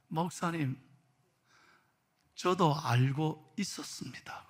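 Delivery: soft, low, near-whispered confession; imitating a subdued grandmother; hushed admission. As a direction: confide it slowly and quietly. Grandmother confides she knew.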